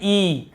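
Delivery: ई held as "ee"; long ई. Shown as a demonstration. Teacher showing the big matra, long ई. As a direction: stretch the ई vowel. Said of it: "बड़ी की मात्रा होता है".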